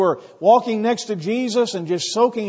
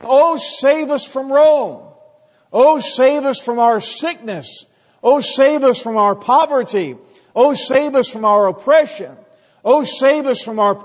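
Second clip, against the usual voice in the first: loud, slow, pleading cry of a crowd; 4 semitones higher, 5 dB louder than usual. Retold or imitated. Preacher voicing the crowd begging for rescue: loud pleading cry. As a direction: beg to be saved, drawn out and raised.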